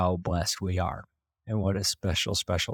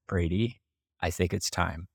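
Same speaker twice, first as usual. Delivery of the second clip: calm voice. Retold or imitated. Wife gently telling husband it's time, calm. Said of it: "she said it in a very calm voice".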